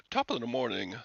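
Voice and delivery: half-hearted stock Irish greeting; failed Irish accent. Acted. First go at talking Irish, faint fake accent. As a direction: attempt an Irish accent, barely there. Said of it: "I can't talk Irish".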